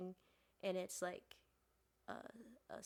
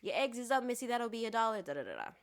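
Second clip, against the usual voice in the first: Southern diner waitress; 3 semitones higher, 7 dB louder, faster than usual. Acted. Waitress telling Missy her eggs are up, Southern hospitality. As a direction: call out an order like a Southern waitress. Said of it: "a mix of Southern hospitality".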